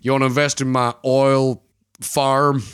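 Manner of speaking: slow, drawn-out mock Texan drawl; rich Texan. Archie pitching his oil farm to investors, rich Texan accent. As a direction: ham up a wealthy Texan accent. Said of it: "a rich, rich Texan who's like".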